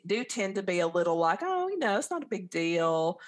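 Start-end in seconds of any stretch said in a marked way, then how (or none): 1.4-3.2 mock passive Southern. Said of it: "real passive and, um, polite".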